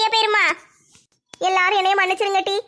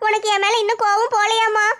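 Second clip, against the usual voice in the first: put-on young girl voice. Daughter begs her mother not to talk of dying, lightly voiced pleading girl. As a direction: gently beg mother to live, in a slightly raised girl's voice.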